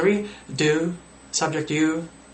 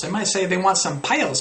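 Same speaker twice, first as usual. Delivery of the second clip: ordinary talk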